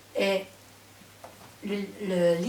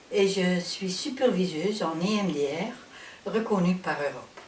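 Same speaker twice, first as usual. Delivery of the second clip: Dutch accent in French. Real, not acted. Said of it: "Je suis néerlandophone, alors je m'excuse si mon français n'est pas parfait".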